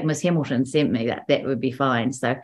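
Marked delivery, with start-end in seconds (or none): 0.0-1.1 lightly done New Zealand accent. Shown as a demonstration. Actor showing her key phrase for the accent, New Zealand accent. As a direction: Kiwi vowels on a practice phrase. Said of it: "that was my New Zealand accent".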